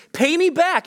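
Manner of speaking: snapping it out high and sharp; a bully shaking someone down; demanding. Retold or imitated. Servant grabbing the debtor and demanding payment, high and sharp.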